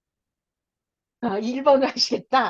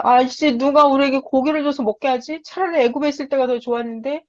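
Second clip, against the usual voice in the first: whining Israelites; 4 semitones higher than usual. Retold or imitated. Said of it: "멍청한 소리를 하는 거예요".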